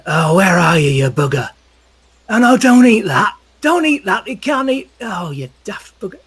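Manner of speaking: high, loud exasperated calls; calling out to a dog. Acted. Marazzo shouting at his dog in the forest, high and loud. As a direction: yell after a runaway pet, pitch climbing.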